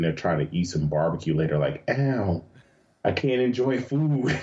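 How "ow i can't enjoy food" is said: higher-pitched comic whine of pain; mock pained complaint. Performer trying to eat barbecue with hurt throat, mock pained. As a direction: grumble in exaggerated self-pity. Acting out eating with injured throat.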